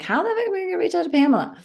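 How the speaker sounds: high, fast, incredulous mock panic; frantic high-pitched how-am-I-supposed-to; exasperated disbelief. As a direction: throw it up high in a rush of disbelief. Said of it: "I'm like".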